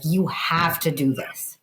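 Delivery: slow, pressing "You have to do this" with weight on each word; emphatic demo. Shown as a demonstration. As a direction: lean on "You have to do this" like an urgent command. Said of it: "like, louder at that point".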